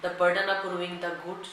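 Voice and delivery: dictating a legal section to students at x0.3; slow, deliberate reading of the act; slow statute dictation. Acted. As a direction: read the law word by word, very slowly. Reads the statute text aloud.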